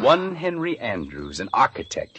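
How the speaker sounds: sneering. Retold or imitated. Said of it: "in his nasty little sneering voice".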